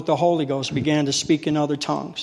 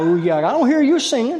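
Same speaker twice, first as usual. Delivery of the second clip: her complaint pitched way up; high old lady voice; 9 semitones higher, 4 dB louder than usual. Retold or imitated. Preacher replaying the lady's scolding in his head, squeaky and high. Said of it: "Talking about".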